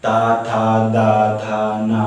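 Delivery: ता था दा था ना recited one after another; demonstrated dental row. Shown as a demonstration. Teacher reciting the dental row for the students. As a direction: run through ता था दा था ना steadily. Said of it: "दांतों के बीच में".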